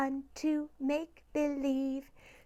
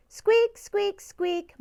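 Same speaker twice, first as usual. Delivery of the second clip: guinea pig squeak; 4 semitones higher, 6 dB louder, slower than usual. Acted. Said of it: "my guinea pig says".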